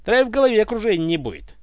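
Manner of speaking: quick, biting advice; the tsar mocks Ivan's hangover; sarcastic. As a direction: sneer the advice. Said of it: "язвительно посоветовал царь".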